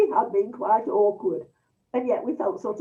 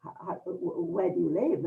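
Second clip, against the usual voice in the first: lightly voiced hesitant son-in-law, softer; quiet, faltering polite introductions; a hint of a nervous stammer, softer; 3 semitones lower, 4 dB quieter than usual. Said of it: "this slight stammer, this slight hesitancy".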